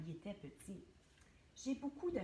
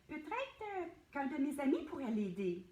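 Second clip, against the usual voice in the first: 1 thinking aloud; 4 semitones higher, 4 dB louder than usual. Acted. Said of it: "se dit Clovy".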